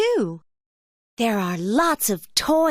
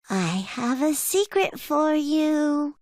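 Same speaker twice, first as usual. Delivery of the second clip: high-pitched cub with a secret; little bear cub; 5 semitones higher than usual. A narrator's reading. Little bear tells Mom he has a secret, high cub voice.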